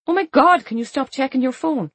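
sharp, high annoyed complaint; exasperated outburst. Acted. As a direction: snap at her to put the phone down. Exasperated friend at dinner.

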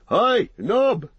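high, loud call for a servant; shout. A narrator's reading. Landlord summoning his hobbit servant, shouting. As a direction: holler it high to someone out of sight. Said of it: "he shouted".

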